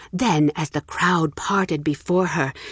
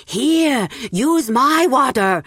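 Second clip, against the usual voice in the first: high, louder eager shout; shouting villager; 8 semitones higher, 4 dB louder, much slower than usual. Acted. Villager shouting to the beggar, eager shout. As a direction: call out to get his attention first. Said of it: "one man shouted".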